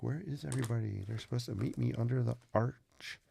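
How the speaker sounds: a hint of a lost friend wondering where everyone is; Jen impression. Imitating viewer Jen waiting under the arch, mild puzzled voice. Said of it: "that's my best Jen impression".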